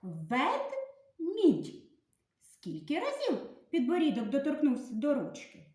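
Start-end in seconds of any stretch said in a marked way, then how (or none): 0.0-1.8 spoken demo word. Shown as a demonstration. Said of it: "вимовляємо слово".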